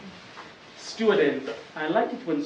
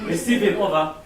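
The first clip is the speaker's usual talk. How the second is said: walkie-talkie voice; 6 dB louder than usual. Pretend. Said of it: "take my walkie-talkie".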